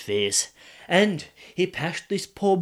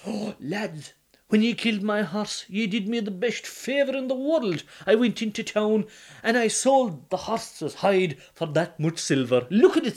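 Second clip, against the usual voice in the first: higher, gleeful bragging; boastful Donal; 5 semitones higher than usual. Acted. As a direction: show off the silver with a laugh.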